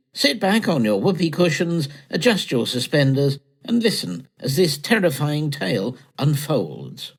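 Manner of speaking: lightly voiced mock-dramatic announcer. Reading the announcer warning for their play, mock dramatic. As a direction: warn the listeners with hammed-up gravity. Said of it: "I'll read the announcer bit".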